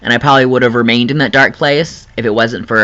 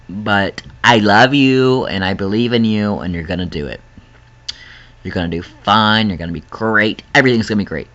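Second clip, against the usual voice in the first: tender encouragement; 3 semitones lower than usual. Real, not acted. Encouraging struggling viewers.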